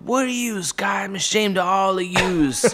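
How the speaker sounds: put-on high, scolding New York mother's accent; crazy New York accent. Friend's mother scolding kids in the basement, yelling in New York accent. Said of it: "yelling at us with this crazy accent".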